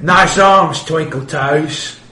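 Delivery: mocking orc. Orc mocks the hero.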